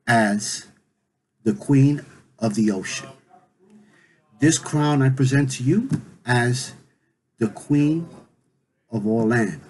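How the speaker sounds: lightly solemn proclamation, pausing between phrases; ceremonial proclamation. Acted. Olofi crowns Yemaya before everyone, lightly ceremonial proclamation. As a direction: present each title with measured pauses.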